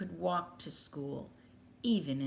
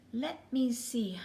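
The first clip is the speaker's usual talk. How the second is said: whispered musing; 6 semitones higher, slower than usual. Acted. Carpenter musing to himself.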